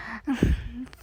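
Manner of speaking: soft, giddy breath of laughter; small relieved laugh. Acted. Larry hearing from his friend at last, quiet giddy laugh. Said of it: "sounded relieved and a bit giddy".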